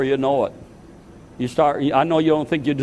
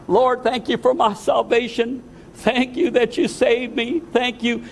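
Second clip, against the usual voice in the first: a fervent prayer of thanks, pitched higher; reenacted prayer; 9 semitones higher than usual. Pastor reliving his prayer of thanks, raised high and fervent. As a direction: lift the voice up to the Lord in thanks.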